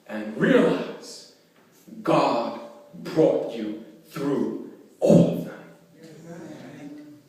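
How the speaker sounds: slow preaching with long pauses; deliberate pulpit delivery, stretching key words; quoted sermon. Retold or imitated. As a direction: imitate a preacher's solemn, weighted address.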